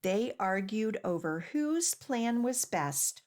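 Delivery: clear, lively storybook reading; gentle picture-book narration with little pauses; reading to children. Acted. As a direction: read the story aloud to a group of small kids. Reads picture book aloud.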